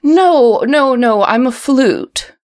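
sing-songy flute voice. Acted. Flute corrects the player.

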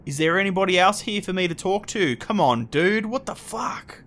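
put-on loud indignant drunk, pitch shooting up; a drunk getting fed up; annoyed drunk. GM voices annoyed drunk guy.

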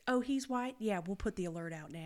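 mock Southern cop suddenly obliging; Southern accent. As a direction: play a Southern officer changing his tune. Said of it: "why we're doing that accent".

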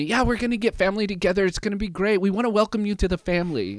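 high, quick mock Filipino lilt; bright singsong Filipino-accented welcome; imitating cousins' Filipino accent. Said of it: "And that's how they talk".

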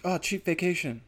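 lightly put-on Asian accent. Comedian imagines a family marvelling at a cheap vacation, Asian accent. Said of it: "gave 'em an Asian accent there".

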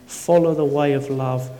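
solemn Bible reading; scripture reading. Acted. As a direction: read the verses with weight. Reads scripture aloud.

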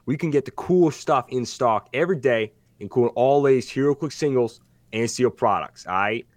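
a light, hammed-up Brooklyn wiseguy ad read; mock Brooklyn accent. Host reading the sponsor ad in a weak Brooklyn voice. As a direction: sell it like a half-baked mobster. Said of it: "now I can't do the voice".

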